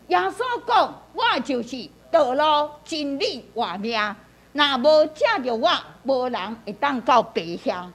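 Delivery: measured reading in separate phrases; demonstration scripture reading. Shown as a demonstration. Pastor demonstrating a verse for guided prayer, measured reading. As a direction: read the verse out deliberately, phrase by phrase. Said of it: "指导的示范".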